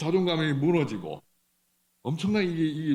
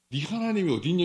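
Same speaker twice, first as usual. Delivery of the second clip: mocking taunt; 4 semitones higher than usual. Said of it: "이러고 있는 거예요".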